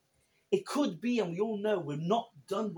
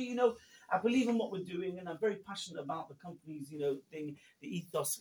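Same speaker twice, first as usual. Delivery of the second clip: earnest employee; 4 semitones higher than usual. Retold or imitated. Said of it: "He always says to me".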